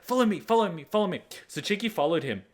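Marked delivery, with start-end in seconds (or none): 0.0-1.2 high, excited dog voice; imitated eager, high-pitched invitation. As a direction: urge her along like a giddy pup. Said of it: "And he was like".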